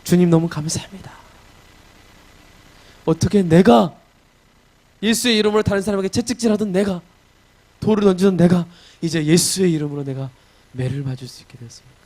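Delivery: fervent wonder at being chosen; rising fervent prayer. Acted. Paul amazed he may suffer for Jesus, fervent prayer.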